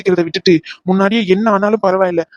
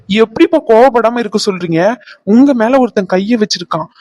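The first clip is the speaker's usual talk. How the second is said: raised, heated objection; indignant protest; 3 semitones higher than usual. Acted. Son protesting over his father being attacked, indignant.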